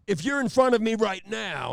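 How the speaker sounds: high, loud Nicholson-style cop; Jack Nicholson impression. Trooper addresses the courtroom like Jack Nicholson. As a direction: growl it like Nicholson. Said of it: "like he's Jack Nicholson".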